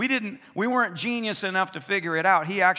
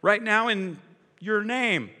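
binding rebuke. Retold or imitated. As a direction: order the words to stop. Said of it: "he binds Jesus".

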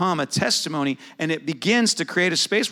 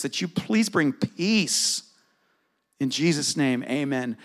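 prayer. Shown as a demonstration. Pastor models praying for a hurting friend, gently.

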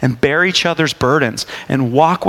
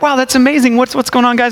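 excited greeting; 6 semitones higher than usual. Retold or imitated. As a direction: play up the surprise of bumping into old friends. Greeting old friends in restaurant.

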